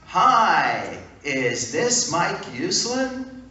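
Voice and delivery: a booming, slow, delighted hello; exuberant Stan Lee. Retold or imitated. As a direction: greet him big and hearty. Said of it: "an exuberant male voice".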